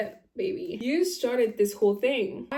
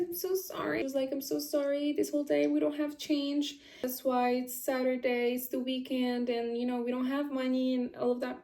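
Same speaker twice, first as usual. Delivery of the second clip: imitating her apology; 3 semitones higher, 4 dB quieter than usual.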